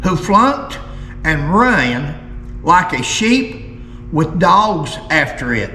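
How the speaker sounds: deliberate, emphatic story reading; reading aloud. Acted. Host reads an old feud story to viewers, deliberate emphatic reading. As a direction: read the old account in weighted phrases.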